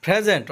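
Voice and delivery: প্রেজেন্ট opening on a breathed "phr", R sounded; P as aspirated ফ. Shown as a demonstration. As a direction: start প্রেজেন্ট with ফ and keep the R. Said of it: "পি এর উচ্চারণ ফ হবে". (প্রেজেন্ট, প হবে ফ, র থাকবে)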